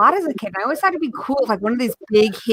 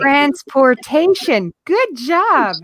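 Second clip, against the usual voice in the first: mock cheery teacher voice; 5 semitones higher, much slower than usual.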